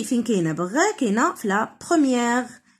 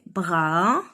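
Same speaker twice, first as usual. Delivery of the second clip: syllable by syllable; 7 semitones lower than usual. Shown as a demonstration. Teacher sounding out a word for children, براسلي broken in three. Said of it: "تخوا سيلاب".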